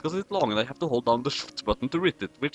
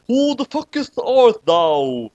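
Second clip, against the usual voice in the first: Teosifj; 9 semitones higher, 6 dB louder, slower than usual. Acted. Shinigami's first line.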